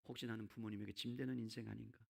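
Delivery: low, soft brooding; hushed, low-pitched inner thought; dejected self-doubt. Acted. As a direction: wonder quietly to yourself, downcast. Acted self-doubt of disabled man.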